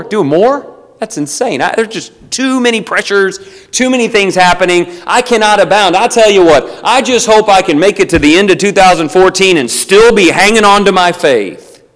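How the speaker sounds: hammed-up whining about too many pressures; whiny overwhelmed Christian. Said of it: "I've met a lot of Christians like this".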